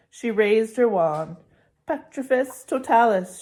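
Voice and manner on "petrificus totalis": louder spell cry; cried spell. Acted. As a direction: fling the spell out loud. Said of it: "she cried".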